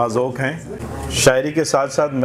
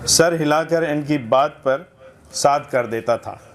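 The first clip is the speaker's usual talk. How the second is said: measured literary reading aloud; humorous essay recitation; 3 semitones higher than usual. Acted. Reader presenting a satirical essay to a literary gathering, recitation. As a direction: read it out for a listening audience.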